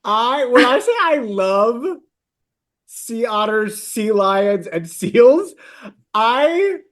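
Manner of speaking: high, halting confession of love; tearful gushing. Real, not acted. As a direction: laugh and choke up as you gush. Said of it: "Are, are these tears?".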